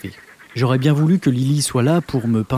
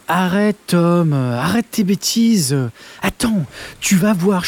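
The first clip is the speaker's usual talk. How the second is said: Lily agacée; 4 semitones higher, slower than usual. Acted. Lily agacée, Tom insiste.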